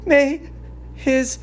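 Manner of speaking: grieving mother cursing the man who doomed her son; bitter curse. Acted. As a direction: call down God's wrath on him.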